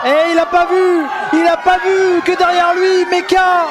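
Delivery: excited play-by-play rising; wrestling commentator. Real, not acted. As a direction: call the finish in disbelief. Excited live commentary on finish.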